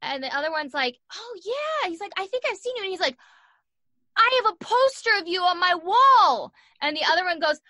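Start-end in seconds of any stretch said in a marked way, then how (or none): 1.1-6.5 much higher put-on voice of a drunk frat boy; mock the starstruck drunk kid; drunk frat guy. Mimicking drunk frat guys in jail.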